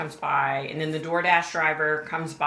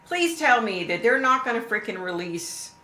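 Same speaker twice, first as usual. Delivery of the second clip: much higher and louder, begging; desperate plea; 7 semitones higher, 7 dB louder than usual. Real, not acted. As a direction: plead hard, voice rising in distress. Pleading about crime scene photos.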